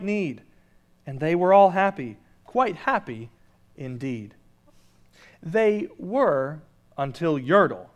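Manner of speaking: lively rhymed read-aloud; storybook reading. A narrator's reading. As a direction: read it like a bedtime rhyme to the congregation.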